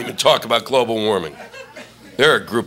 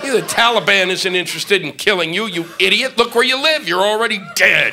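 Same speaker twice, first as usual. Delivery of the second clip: scornful rant; 4 semitones higher than usual. Acted. Telling off the locals.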